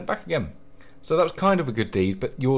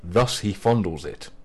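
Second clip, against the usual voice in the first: mock-grand reading; read aloud. Shown as a demonstration. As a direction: read the profile with mock gravity. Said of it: "I'm gonna read a few of these out".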